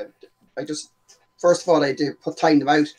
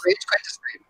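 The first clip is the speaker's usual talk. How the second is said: half-swallowed, barely voiced question; mumbled question; 4 dB quieter than usual. Real, not acted. Co-host mumbles a quick question the guest misses. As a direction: throw it away under your breath. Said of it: "Sorry, what'd you say?".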